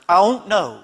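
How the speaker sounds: imitated tearful child, pitch falling away; mock crying. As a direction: play at blubbering it as one word. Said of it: "crying 'cause I don't wanna leave home".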